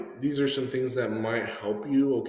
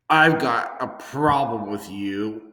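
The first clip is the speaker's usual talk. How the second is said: slow, in-your-face challenge; mock confrontation; 4 dB louder, slower than usual. Shown as a demonstration. Student wrongly confronting someone, slow and confrontational. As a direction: demo of squaring up, drawn-out words. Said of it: "supposed to get in their face".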